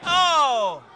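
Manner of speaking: sudden loud gasp of surprise; loud surprised oh. Acted. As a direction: react to the near fall. Reaction to near fall.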